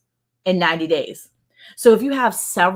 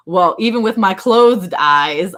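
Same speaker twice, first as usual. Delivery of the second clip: quoting a commenter while laughing; can't keep a straight face reading it; giggling mock commenter; laughing through quote; 5 semitones higher, 4 dB louder than usual. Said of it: "Somebody came on there the other day and said".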